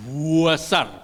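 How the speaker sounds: besar stretched as buasar, Javanese style; drawn-out besar. Shown as a demonstration. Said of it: "bukan besar kok".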